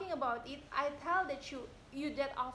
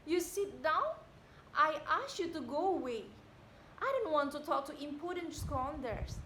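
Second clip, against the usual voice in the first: angry command. Acted. Widow orders him away.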